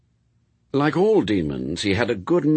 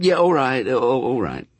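a short irritated snap, louder and higher at the start; snapped; 4 semitones higher, 4 dB louder than usual. Acted. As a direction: brush it off crossly. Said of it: "Crowley snapped".

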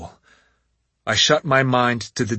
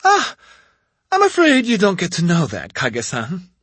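taunting witch; 7 semitones higher, 4 dB louder than usual. A narrator's reading. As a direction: toy with him before the kill. Witch refuses to answer.

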